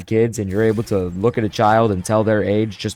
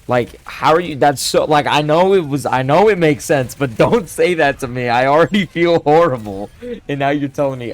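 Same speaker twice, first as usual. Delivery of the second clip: louder, higher, half-laughing protest; real mock outrage, pitched up and loud; exasperated; 3 semitones higher, 4 dB louder than usual. Real, not acted. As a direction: vent like you can't believe they said that. Indignant rant at customers' reply.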